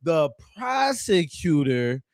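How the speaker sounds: "prosecutor" said slowly with a clear pro-; correct pronunciation. Shown as a demonstration. Correcting Simon's "persecutor", slow and clear. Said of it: "I believe that's what you were trying to say".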